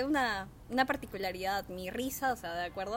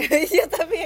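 mock shout; 6 semitones higher, 11 dB louder, slower than usual. Echoing the hilltop voice mockingly.

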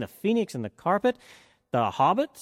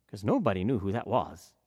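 plain reading voice

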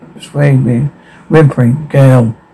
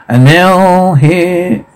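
ringmaster; 4 semitones higher, much slower than usual. Acted.

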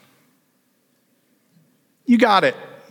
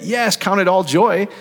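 exultant; 7 semitones higher, slower than usual. Pretend. Voicing faith response, raised.

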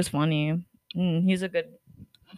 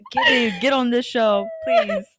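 please jumps way up high; pleading; 4 semitones higher than usual. Pretend. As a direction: beg like a desperate fan. Begging Gibby to return.

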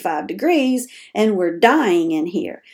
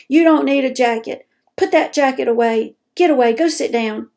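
bossy, louder scolding of a cold parent; scolding caregiver; 3 semitones higher, 4 dB louder than usual. Pretend. Caregiver scolding a cold loved one, bossy and louder. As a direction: snap orders at them like a stern caregiver. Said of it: "and I told you".

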